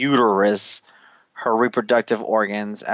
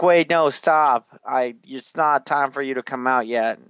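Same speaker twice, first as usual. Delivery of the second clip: panicking queen; 3 semitones higher than usual. Retold or imitated. Queen telling her baby it is too early, imitated protest. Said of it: "she's clearly like".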